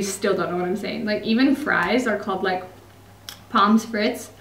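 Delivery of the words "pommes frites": "pommes frites" said in an American accent. Shown as a demonstration. Ordering fries in Germany, "pommes frites" in an American accent. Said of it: "I'm saying that with an American accent".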